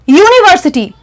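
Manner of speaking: university starting with a "yoo" glide; slow, careful university; demonstrated pronunciation. Shown as a demonstration. Teacher contrasts it with urn, slow demonstrated university. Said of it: "you just please pronunciate".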